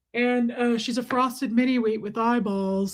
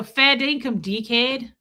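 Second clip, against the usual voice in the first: "Fair dinkum" said with an Australian twang; Australian accent. Shown as a demonstration. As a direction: put on an Australian accent for the slang. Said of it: "that's Australian".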